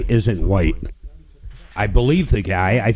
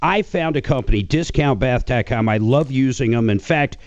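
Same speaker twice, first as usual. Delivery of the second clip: conversational radio endorsement; 3 semitones higher than usual. Real, not acted. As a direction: plug it like a radio host. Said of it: "Got that radio voice".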